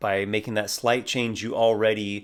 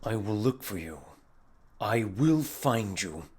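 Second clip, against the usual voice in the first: put-on British accent; 5 dB quieter than usual. Fantasy character vowing a hunt, hushed British accent. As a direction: threaten quietly in a British accent. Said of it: "talk like this".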